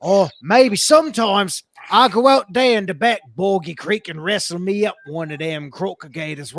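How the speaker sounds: a hammed-up Australian accent; Australian accent attempt. Shown as a demonstration. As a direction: ham up an outback wrestler. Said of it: "can I do Australian?".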